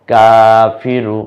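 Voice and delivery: শাহিদা stretched syllable by syllable, each vowel held long; slow drawn-out reading. Shown as a demonstration. Teacher to learners, showing the joined word, very slow. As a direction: draw out শাহিদা slowly and clearly. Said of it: "মিলে হবে কি?".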